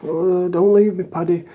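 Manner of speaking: slow, high, whimpering plea; mock crying. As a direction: imitate a detoxing hardman sobbing. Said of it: "crying and saying".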